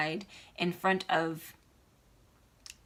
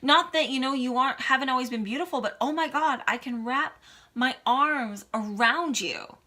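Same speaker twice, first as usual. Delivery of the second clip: excited friend quote; 5 semitones higher than usual. Retold or imitated. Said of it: "She goes".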